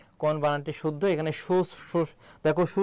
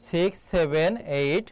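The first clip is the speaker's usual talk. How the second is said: slow dictation; slower than usual. Shown as a demonstration. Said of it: "এই যে এই নাম্বারটা".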